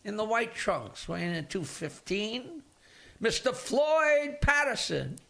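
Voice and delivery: hammed-up ring announcer stretching each word; boxing announcer. Comedian retelling a joke, playing the ring announcer introducing the champ, slow and booming. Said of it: "the announcer comes out and says".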